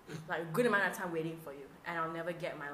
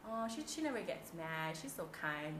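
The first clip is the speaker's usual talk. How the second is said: admiring onlookers; 4 dB quieter, slower than usual. Retold or imitated. Colleagues describe the host's smile, sweetly admiring. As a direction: coo admiringly in mock innocence. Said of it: "or they'll be like".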